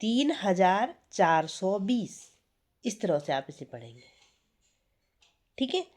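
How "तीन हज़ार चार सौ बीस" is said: slow reading aloud. Shown as a demonstration. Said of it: "तो ये क्या हो जाएगा?".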